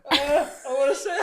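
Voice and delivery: high-pitched little kid impression; child's voice. Child piping up from the buggy, imitated high kid voice.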